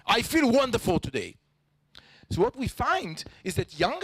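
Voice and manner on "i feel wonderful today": words said with a clashing, non-happy tone; mismatched tone. Shown as a demonstration. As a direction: say it so the tone contradicts the words. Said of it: "what happens when you hear this?".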